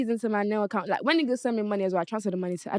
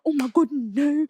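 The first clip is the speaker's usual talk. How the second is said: higher, louder drawn-out whine; mock tearful pleading; 5 semitones higher, 5 dB louder, slower than usual. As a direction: imitate a man wailing on the floor. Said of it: "He sat on the floor crying".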